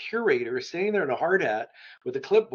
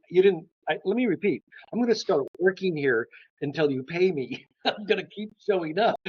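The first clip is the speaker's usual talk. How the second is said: higher-pitched, mildly insistent retelling; retold insistence; 5 semitones higher than usual. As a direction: re-enact politely refusing to take no. Insists on a job after refusal.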